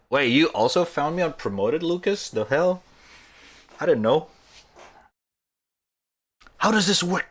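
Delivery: high, loud disbelief; surprised. Real, not acted. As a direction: react with sudden astonishment. Surprised by promoted section.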